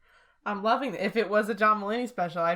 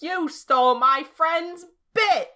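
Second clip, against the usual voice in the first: louder, challenging call-out; mock confrontation; 5 semitones higher, 7 dB louder, slower than usual. A fan confronting a comedian for a friend, loud mock call-out. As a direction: call him out like picking a fight.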